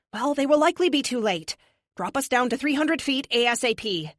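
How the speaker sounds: crisp synthetic AI voice. A narrator's reading. Epic the AI voice.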